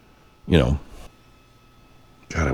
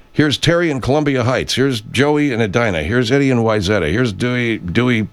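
raised, bright call-screener announcing; radio host calling callers; 5 semitones higher than usual. Retold or imitated. Host imitating how WCCO announced callers, raised radio host voice. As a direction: introduce each caller like an old radio host. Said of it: "identified callers at W C C O".

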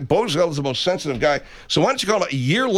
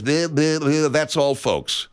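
lightly imitated stuttering cartoon catchphrase; stammer, then draw out the sign-off; hint of a cartoon pig's farewell; Looney Tunes sign-off; slower than usual. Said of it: "the Looney Tunes".

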